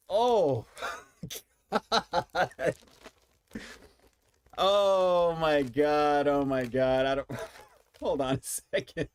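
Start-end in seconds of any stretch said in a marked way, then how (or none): 0.1-7.3 smelling something awful. Real, not acted. Reacting to a strong smell.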